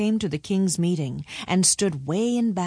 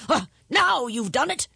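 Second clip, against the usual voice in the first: higher-pitched exasperated royal groan; a touch of kingly despair; 7 semitones higher than usual. A narrator's reading. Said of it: "groaned the king".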